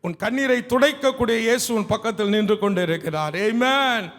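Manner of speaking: building to a loud rallying call; impassioned preaching. Real, not acted. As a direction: proclaim the promise, swelling in volume to the end. Preaches promise to congregation.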